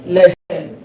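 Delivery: "Lehem" stressed on its first syllable; penultimate stress. Shown as a demonstration. Teacher shows where the accent falls, penultimate stress. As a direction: say "Lehem" with the weight on the next-to-last syllable. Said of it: "the stress is on the penultimate syllable".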